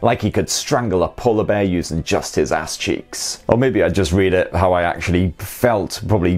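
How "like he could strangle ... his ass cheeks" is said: lower, a hint of a seductive uncle; lightly voiced sultry reader; sexy uncle voice. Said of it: "the sexy uncle voice".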